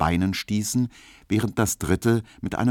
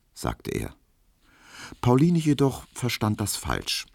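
plain reading voice

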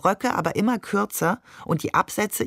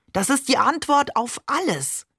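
higher-pitched, zealous proclamation; fervent conviction; 6 semitones higher than usual. A narrator's reading. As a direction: announce it as a revelation. Zealous praise of holy book. (mit glühender Überzeugung)

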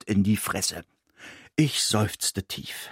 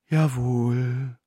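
breathed yes. A narrator's reading.

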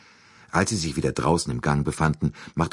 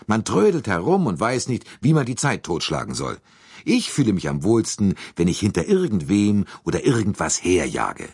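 higher, louder and fidgety; an impatient go-getter itching to move; restless American Hartmann; 4 semitones higher, 3 dB louder than usual. Acted. Hartmann complains to Poirot about the idleness, higher and louder.

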